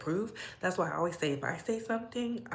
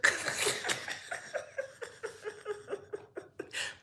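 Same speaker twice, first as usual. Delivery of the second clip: a long high airless laugh; real laugh tumbling out high and breathy. Real, not acted. Laughs at own joke on stream.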